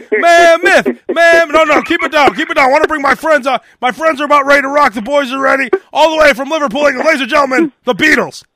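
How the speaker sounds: hyped rock DJ working a crowd; classic rock DJ. Acted. DJ introduces the band to their crowd, hyped stage shouting. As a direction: emcee calling out over cheering fans. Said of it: "introduce the band and act like the fans".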